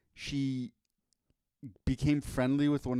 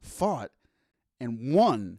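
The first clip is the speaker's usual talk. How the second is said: boxing ring announcer; 5 dB louder, much slower than usual. Acted. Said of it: "ring announcer voice".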